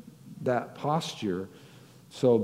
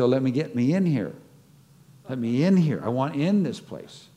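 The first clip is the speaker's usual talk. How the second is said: eager plea; 3 semitones higher, 5 dB louder than usual. Pretend. Voicing eager believer wanting in.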